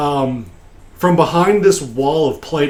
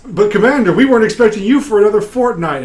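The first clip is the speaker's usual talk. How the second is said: high, louder flustered subordinate; pitched-up acted excuse; protesting captain; 8 semitones higher, 5 dB louder, faster than usual. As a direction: protest nervously to your commander. Captain protests to his superior.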